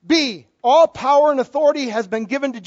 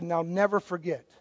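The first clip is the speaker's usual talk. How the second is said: low, soft voice of a musician making his point; understated, hushed retelling of a punchline; retold parting words; 6 semitones lower, 8 dB quieter than usual. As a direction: deliver the violinist's line low and quietly. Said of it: "he said".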